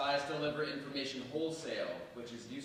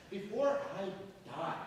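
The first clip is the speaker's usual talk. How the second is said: impassioned cry; 9 semitones higher, 5 dB louder than usual. Acted. Condemned man's declaration.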